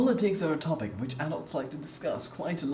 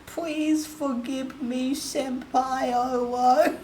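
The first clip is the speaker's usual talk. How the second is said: cutesy anime voice; 6 semitones higher, 3 dB louder, slower than usual. Pretend. Anime-style apology to chat.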